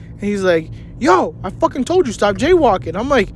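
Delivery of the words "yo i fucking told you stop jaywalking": high-pitched mock telling-off; retold exasperated scolding. Cousin warning him at the crossing, exasperated. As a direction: scold him, pitched up but not shouting.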